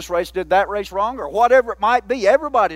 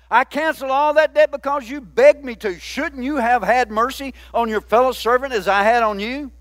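acted rebuke, pitched up then easing; mildly dramatized indignation; angry master; 4 semitones higher than usual. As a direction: scold the servant as his indignant master. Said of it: "in anger, his master".

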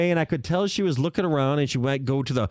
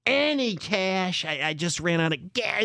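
frantic embarrassed stranger. Retold or imitated. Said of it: "this is exactly how she was talking".

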